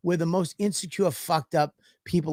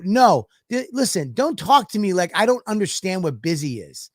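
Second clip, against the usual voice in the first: retold angry rant; 4 semitones higher, 4 dB louder than usual. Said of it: "I go".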